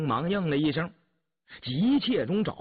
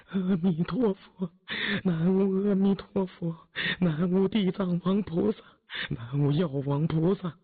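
murmured prayer; 4 semitones higher than usual. A narrator's reading. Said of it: "口中只是喃喃念佛".

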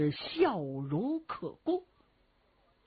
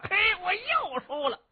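rueful exclamation; 11 semitones higher than usual. Acted. Cheng Yaojin thrown again.

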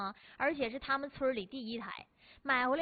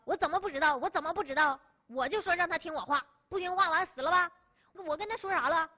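raised, exasperated told-you-so; indignant old grandpa; 5 semitones higher, 5 dB louder than usual. Retold or imitated. Grandpa answering his grandson, loudly indignant. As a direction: scold the dead friend for not listening. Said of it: "然后那个爷爷就说了".

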